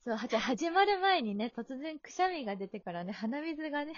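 stuffy nose from sneezing; nasal voice. Real, not acted. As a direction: speak through a blocked nose. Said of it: "ちょっと鼻声のユーリ".

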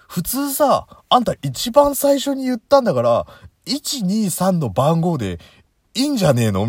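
high, loud annoyed complaining; annoyed rant. Real, not acted. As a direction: scold the machine, fed up. Ranting at the automated menu.

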